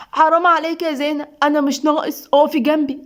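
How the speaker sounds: mildly tearful, pained plea. Acted. Husband begging wife to stay beside him, tearful and pained. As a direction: plead with her through hurt. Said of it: "سيف بدموع وألم".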